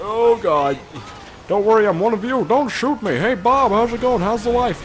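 high, loud pleading voice of a scared cop; panicky Mountie. Retold or imitated. Mountie pleading with gunmen, high and panicky. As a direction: beg not to be shot, then force a friendly chat. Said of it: "you'll get some once in a while that are".

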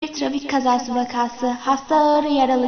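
low, loud emergency voice; urgent doctor. Acted. Doctor announcing a bleeding accident victim, low urgent orders. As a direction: bark orders in a deep, forceful voice.

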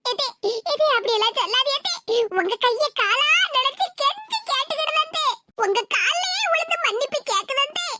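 acted sobbing plea; tearful begging. Daughter-in-law falling at mother-in-law's feet for forgiveness, tearful begging. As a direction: beg and wail for forgiveness. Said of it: "இப்படி காலெல்லாம் விழுந்து கதறுதாவோ".

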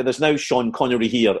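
lightly imitated Edinburgh receptionist; Edinburgh accent. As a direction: answer in a put-on Edinburgh accent. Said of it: "in that horrible Edinburgh accent".

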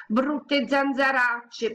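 slow, high, tearful wail; crying. Acted. Little girl crying over mosquito bites. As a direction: whine it out through tears.

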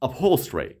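upholstery run together, l straight into -stry; correct quick pronunciation. Shown as a demonstration. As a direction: say upholstery as up-HOL-stree, no added vowel.

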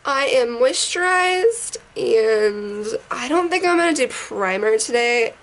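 raspy voice from a sinus infection; hoarse like a chain smoker. Real, not acted. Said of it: "I sound like a chain smoker right now".

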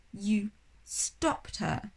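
慢慢地、难以置信地问; stunned slow disbelief. Acted. Sophie shocked, slow.

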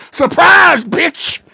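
loud high surprise shout; breaking in with a gleeful yell; triumphant yell. Acted. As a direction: burst in yelling. Breaking into rival's place.

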